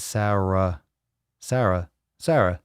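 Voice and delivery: "Sarah" as SAIR-uh, flat first a; Papa's pronunciation. Shown as a demonstration. Host shows how Papa says it, "Sarah" as SAIR-uh. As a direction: say "Sarah" to rhyme with "Farrah", as SAIR-uh. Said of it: "Papa says Sarah".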